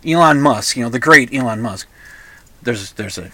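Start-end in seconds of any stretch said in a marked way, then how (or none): 0.9-1.9 sarcastic. Real, not acted. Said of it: "I hope you heard the sarcasm there".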